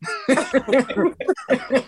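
laughing while warning. Real, not acted. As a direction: say it through a laugh. Joking farewell.

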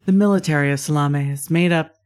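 measured, slightly hushed scene setting; game master's narration. Acted. Game master giving players war background, measured narration. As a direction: read the war lore out with deliberate pauses.

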